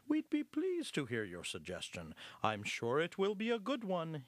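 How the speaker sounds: kindly pastor, lightly voiced; mildly reassuring, courteous. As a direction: gently encourage a shy speaker. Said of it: "in his usual kindly fashion".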